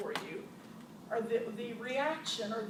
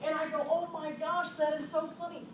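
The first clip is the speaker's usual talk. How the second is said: higher and much louder, laughing through the words; laughing excitedly; 4 semitones higher, 9 dB louder than usual. Real, not acted. Owner telling the audience about the voicemail, loud laughing delight. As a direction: bubble over with laughter as you tell it.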